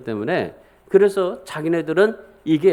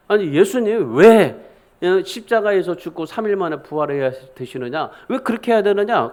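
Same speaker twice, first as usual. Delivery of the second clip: remonstrate with your teacher, stretching the opening words; protesting Peter. Acted. Peter challenging Jesus over the cross, protesting. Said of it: "예수님을 붙들고 막 항변을 해요".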